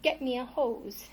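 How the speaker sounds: lively picture-book storytelling; reading to children. A narrator's reading. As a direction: read the tale aloud to little ones. Reads picture book to kids.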